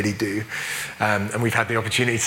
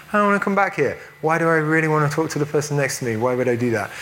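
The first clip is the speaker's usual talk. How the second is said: mock reluctance; 5 semitones higher, faster than usual. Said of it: "she was like".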